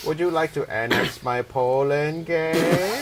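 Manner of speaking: slow mock German accent; bad German accent, drawn out. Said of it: "that's my German accent".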